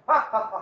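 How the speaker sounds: mock laugh. Shown as a demonstration. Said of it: "mock laugh".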